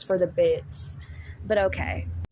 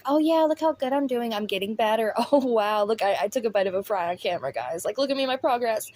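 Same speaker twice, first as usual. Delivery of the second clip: mildly mocking brag, pitch lifted at the start; mock boasting; faster than usual. Commentator imitates streamer boasting of recovery, mildly mocking. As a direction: put on a light show-off voice.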